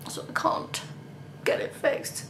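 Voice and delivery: whispered under her breath, deflated; despairing whisper. Real, not acted. Vlogger tells viewers the repairman is away, in a defeated whisper. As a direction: let it slip out as a defeated whisper. Flute shop closed, in despair.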